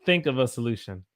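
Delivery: "Think" said like "thenk"; "Think" with an eh vowel; Southern think. Shown as a demonstration. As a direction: turn the i in "Think" to eh. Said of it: "kinda becomes a".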